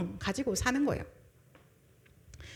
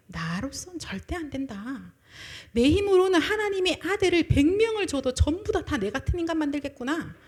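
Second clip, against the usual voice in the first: whispered start rising to a loud outburst; despairing confession; 5 semitones higher, 4 dB louder than usual. Retold or imitated. Hannah realizing her helplessness, hushed then loud despair. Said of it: "하나님이 깨닫게 하신 거예요".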